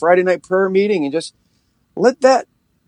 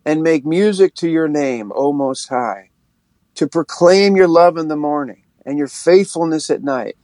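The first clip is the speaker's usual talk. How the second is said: scripture reading. Acted. Reads Psalm ninety-two aloud.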